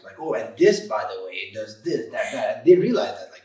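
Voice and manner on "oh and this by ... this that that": imitating a condescending explainer, mildly; mock sarcastic. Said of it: "it could be sarcastic".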